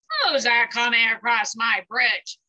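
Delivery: frightened little ogre squeaking at the goat; nearly fainting with fright, small voice; squeaked. Acted. Ogre squeaking out in fear at the big goat on his bridge. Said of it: "squeaked out Little Ogre".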